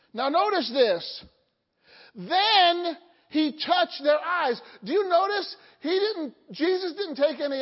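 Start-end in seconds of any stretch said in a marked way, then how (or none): 2.1-4.6 emphatic. Acted. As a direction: drive the moment home. Preacher emphasizing the touch.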